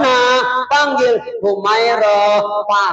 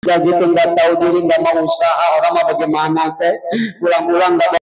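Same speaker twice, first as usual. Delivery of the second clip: nag; 3 semitones lower, faster than usual. Retold or imitated. Mimicking a nagging wife.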